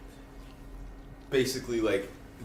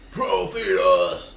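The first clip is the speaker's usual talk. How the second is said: protest shout; 5 semitones lower, 6 dB louder, much slower than usual. Retold or imitated. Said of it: "go out into the streets and be like".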